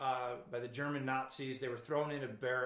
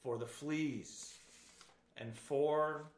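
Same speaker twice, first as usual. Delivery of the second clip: slow, calm and unhurried on "For the fleas"; serene; much slower than usual. A narrator's reading. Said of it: "Betsy continued on serenely".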